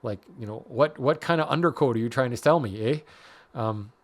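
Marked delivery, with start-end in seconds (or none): 0.7-3.0 lightly put-on Minnesota accent; half-baked Fargo-style Minnesotan accent; attempted Fargo accent. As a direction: have a loose go at a Fargo accent, ending on a folksy "eh". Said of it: "I was trying to do Fargo there".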